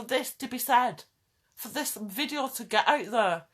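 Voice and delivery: pushing the point hard and high; passionate rant. Real, not acted. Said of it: "I'm just ranting".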